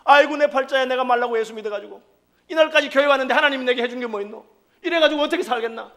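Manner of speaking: imitating a whiny lament over one's lot; a hint of a grumbling wail; self-pitying lament. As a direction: moan about your fate, half mocking. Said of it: "신세 타령".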